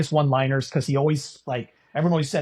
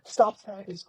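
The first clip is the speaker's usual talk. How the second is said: coach screaming; 13 semitones higher, slower than usual. Retold or imitated. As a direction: scream it like an enraged coach on the court. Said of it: "And he's like".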